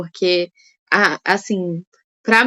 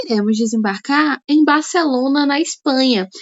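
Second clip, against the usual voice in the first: flight attendant voice. Shown as a demonstration. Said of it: "Vamos usar aqui a voz de aeromoça".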